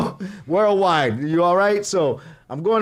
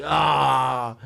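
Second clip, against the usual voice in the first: drawn-out open-mouthed ahh; salivating "ah"; 2 semitones lower than usual. Retold or imitated. Hungry diner eyeing curry menu, salivating ahh. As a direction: let out a hungry, longing sigh of ahh. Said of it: "I'm just salivating".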